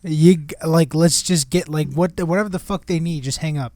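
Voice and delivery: mock exasperation through a door; exasperated urging. Boss knocking on the bathroom door, exasperated. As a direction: urge him off the phone, exasperated.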